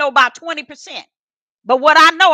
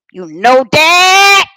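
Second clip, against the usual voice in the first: tender prayer; 4 dB louder, much slower than usual. Real, not acted. Repeated to God, slowed.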